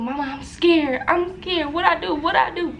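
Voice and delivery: mother at bedside, imitating her own frightened plea; retold scared plea. Daughter to her mama, a pleading frightened plea, retold. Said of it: "I just kept saying".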